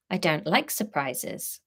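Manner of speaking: slow tight-jawed warning; slow tense retort. Acted. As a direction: say it through a tense jaw. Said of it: "her jaw tense".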